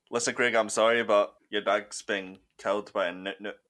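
put-on a weak stab at a Scottish accent, barely shifted; terrible Scottish accent. Caring uncle telling nephew his dog died, in a light Scottish accent. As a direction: uncle breaking sad news in a mild Scottish accent. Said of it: "That's a terrible accent because I could understand you".

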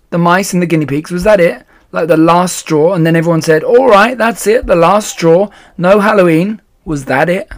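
put-on high, loud, eager kid asking; eager questioning. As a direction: press her for the answer, all worked up. Charlie eagerly questions Beth.

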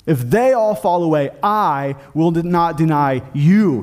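slow, weighty stress on THEY and I; emphatic, personal. Retold or imitated. Peter makes Christ a personal promise, emphatic. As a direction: stretch out I and YOU as a personal vow. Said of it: "He said emphatically and personally".

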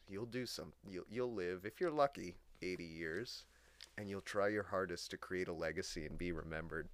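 soft grim musing to yourself; quiet. Retold or imitated. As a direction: murmur it alone in bed. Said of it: "be like".

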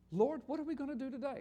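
the reading with Lord. Shown as a demonstration. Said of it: "little L, little O, little R, little D".

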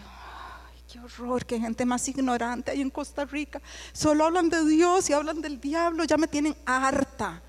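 disdainful put-on voice, fed up; haughty scorn. About Costa Ricans, a haughty fed-up sneer. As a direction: sneer at the ignorant locals. Mocking her own past scorn.

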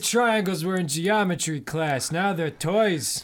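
lightly voiced grumpy old man. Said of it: "old man voice".

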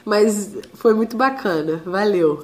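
hoarse voice from laryngitis; croaky voice still recovering from laryngitis; duck voice. Real, not acted. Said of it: "Desculpa a minha voz de pato".

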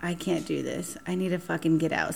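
trapped at the movie, soft urgent panic; hushed panic. Retold or imitated. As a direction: murmur the panic under your breath. Panicked inner thought in cinema.

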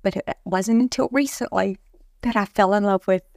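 real crying, voice breaking; snotty crying. Real, not acted. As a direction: talk through real tears. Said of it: "I know I'm fucking crying".

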